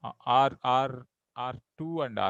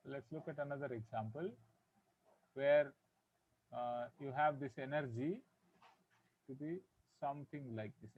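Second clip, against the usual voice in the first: barely audible; 5 dB quieter than usual. Real, not acted. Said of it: "Your voice is very low, sir".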